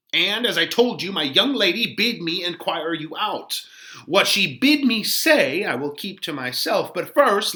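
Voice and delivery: put-on high, huffy old woman's voice; a fussy nurse demanding answers; voiced nurse, put out; indignant old nurse. Teacher voices the vexed nurse.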